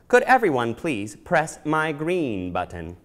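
slow, even mechanical robot request. Acted. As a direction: speak like a polite robot. Robot asks children.

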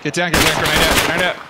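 urgent shouted warning; grenade warning yell. Real, not acted. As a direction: yell it to your squad. Calling a grenade warning in combat.

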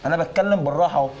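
testy, climbing insistence; not so calm. Pretend. Barber claims he is calm to customer, testily. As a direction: voice rising while claiming calm. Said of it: "هو ده كله بالراحة؟".

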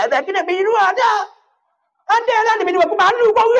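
hammed-up wife scolding her husband; imitating a wife. Wife voiced complaining to husband.

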